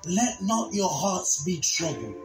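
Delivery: measured preacher's reading, rising in force; scripture recitation. Acted. Preacher quoting Jesus to the congregation, solemn scripture recitation. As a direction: recite it with weight, drawing out the key words.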